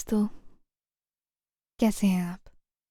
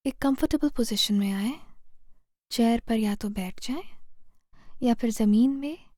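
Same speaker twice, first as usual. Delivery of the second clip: guided meditation. Real, not acted. Meditation guide leading listeners through posture and breath to heal fear, calm guided meditation. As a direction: guide them gently, phrase by phrase, leaving space to breathe.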